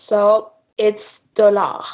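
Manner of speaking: dollar with no S at the end, one L; no final S. Shown as a demonstration. Teacher showing French dollar plural, S silent. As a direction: drop the S on dollar. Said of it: "never pronouncing the S".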